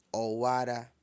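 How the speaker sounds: "Owara" level on a low tone; all low tone. Shown as a demonstration. Teacher builds a birth-month sentence, all low tones. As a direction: hold "Owara" low throughout. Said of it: "Tudo em tom baixo".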